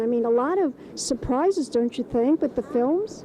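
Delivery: breathy gushing showbiz host; gushing red carpet chatter. Acted. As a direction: gush over the guest like a glam host. Hosts red carpet show in character.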